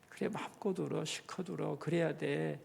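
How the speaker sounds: gentle soothing comfort. Acted. Preacher softly voicing how to comfort a mourner. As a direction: murmur it like soothing a grieving friend. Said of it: "라고 우는 것을 지지해주고".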